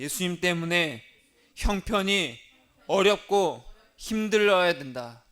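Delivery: preacher leads the church in a slow, loud recitation; call and response line. Shown as a demonstration. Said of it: "따라하겠습니다".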